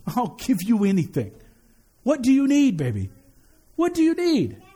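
lightly voiced fond parent asking what baby needs; tender loving father. God speaking as a fond parent to his beloved child, tender. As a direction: coax gently, like a parent to a little child. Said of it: "that's how God feels about us".

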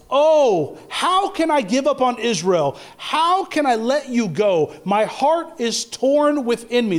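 high, drawn-out cry of the heart; acted heartfelt lament; impassioned plea. Voicing God's anguished plea from scripture.

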